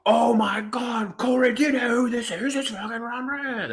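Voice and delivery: put-on high, hammy Irish accent; badly faked Irish accent, quick and loose. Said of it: "That was a bad Irish accent".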